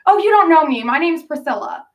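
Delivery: high, excited gush of a star-struck fan. Retold or imitated. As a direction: play Priscilla meeting her idol, high and thrilled. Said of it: "And she goes".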